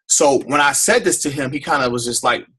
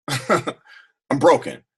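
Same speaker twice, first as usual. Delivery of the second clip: drawn-out, heavy confession; a slow, aching second take; slow broken repeat; much slower than usual. Real, not acted. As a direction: let it sink in slowly. Repeats the admission slowly.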